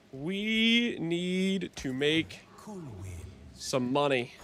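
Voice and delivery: slowly spelled out, each word dragged; slow emphatic. Shown as a demonstration. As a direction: drag out every word.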